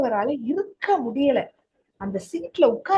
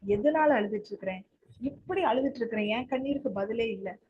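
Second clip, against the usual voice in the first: quiet lament; 6 dB quieter than usual. Retold or imitated. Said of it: "நீங்க நினைக்கலாம்".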